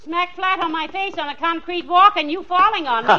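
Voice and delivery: laughing with relief; relieved laugh. Acted. Wife laughs off the fall after the rescue, relieved. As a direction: talk through a laugh.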